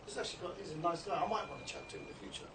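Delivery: a light hushed musing passer-by; half-whispered inner thought of a stranger; imagined passer-by. Retold or imitated. Teacher voices a passer-by's thought, lightly hushed. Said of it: "he'll have the impression".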